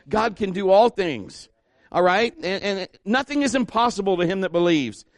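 loud, high-pitched preacher's call; preaching at full force. Acted. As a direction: rouse the congregation to believe. Preaching climax.

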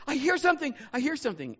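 high, loud thrilled call; a kid bursting with excitement; excited boy. Retold or imitated. Nephew pressed to the glass calling out thrilled. Nephew at window hearing horses.

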